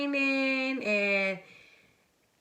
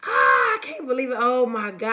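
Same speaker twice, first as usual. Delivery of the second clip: retold happy shock, louder; excited outburst; 5 dB louder than usual. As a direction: relive the thrilled, jumping-up-and-down disbelief. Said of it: "We was jumping up and down".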